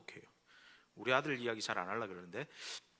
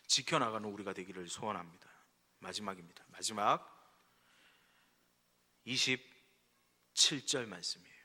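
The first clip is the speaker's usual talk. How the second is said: ordinary talk, nothing marked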